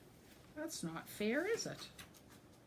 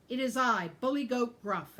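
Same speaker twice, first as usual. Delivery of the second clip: bold goat; 4 semitones higher, 7 dB louder than usual. A narrator's reading. Goat answering the ogre.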